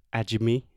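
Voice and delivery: "admi" with an added vowel, like "adgi-mi"; "admi" with the Brazilian support vowel; wrong admi. Shown as a demonstration. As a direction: show the mistaken "admi". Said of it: "So instead of".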